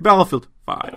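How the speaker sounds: high, loud robotic announcer voice. Shown as a demonstration. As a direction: say it like a text-to-speech robot. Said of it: "Google robotic voice".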